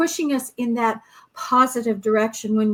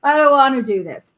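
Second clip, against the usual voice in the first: mock whiny reluctance; 4 dB louder than usual. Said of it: "compared to, like".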